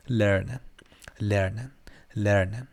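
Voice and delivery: لرنن repeated with a soft R and rising end; light R in each لرنن; correct German R. Shown as a demonstration. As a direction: model لرنن gently, R neither rolled nor scraped.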